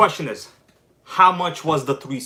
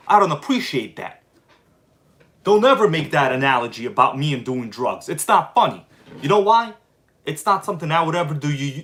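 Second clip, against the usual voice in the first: raised, pitched-up reply to a troll; mock-angry retort. Replying to the troll who said drugs, mock-angry. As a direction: snap back at the commenter, half in jest.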